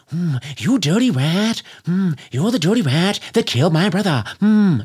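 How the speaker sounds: hacky gangster Cagney voice; corny old-movie gangster impression; Jimmy Cagney. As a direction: sneer it like an old movie tough guy. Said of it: "that's Jimmy Cagney".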